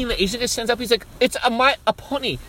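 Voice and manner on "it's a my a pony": halting imitation Chinese accent; mock Chinese accent. Chinese guy on pony protests, mock Chinese accent. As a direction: put on a rough Chinese accent, pitched up. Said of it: "that's how he sounded".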